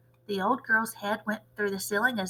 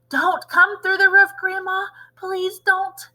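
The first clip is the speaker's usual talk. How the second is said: praying; 9 semitones higher, 5 dB louder than usual. Acted. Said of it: "he prayed".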